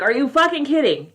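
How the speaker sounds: incredulous. Real, not acted. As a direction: throw it out in indignant disbelief. Reacting incredulously to the excuse.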